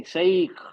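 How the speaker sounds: शेख with an 'ee' glide, 'sha-eekh'; Arabic pronunciation. Shown as a demonstration. Teacher explains the leen letter, शेख said 'sha-eekh'. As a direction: let the 'ee' sound in शेख as 'shaeekh'. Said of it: "तो ई की आवाज आएगी".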